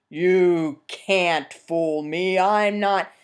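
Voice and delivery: slow, stubborn bear scoffing; suspicious bear. Acted. Bear scoffing at the peasant's warning. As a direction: refuse to be fooled.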